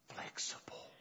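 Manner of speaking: near-whispered single word; hushed. Real, not acted. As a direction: let it out softly, almost without voice.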